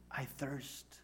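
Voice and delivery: low, very soft, weakened words; suffering. Acted. Jesus suffering on the cross, faint low utterance. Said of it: "words of suffering".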